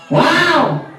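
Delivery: high, excited puppet voice with a laugh. Acted. Puppet Ayo gasps at the kids in a high excited voice. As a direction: squeal it like a cheeky puppet.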